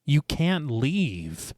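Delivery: slow, soft intoned plea; intoning. A narrator's reading. Sarah to the man she turned away, intoning. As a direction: intone it slowly, drawing out each word.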